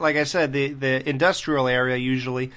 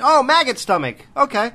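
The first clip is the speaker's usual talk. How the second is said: mock sarcastic reply; 9 semitones higher, 4 dB louder than usual. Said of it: "He's like".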